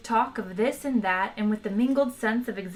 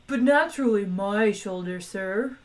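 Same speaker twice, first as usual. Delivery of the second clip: lightly voiced contented creature; contented moo-ish voice. A narrator's reading. The animal to Arthur about its own shoulder, lightly contented. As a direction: purr it out like a satisfied cow. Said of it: "mooed the animal contentedly".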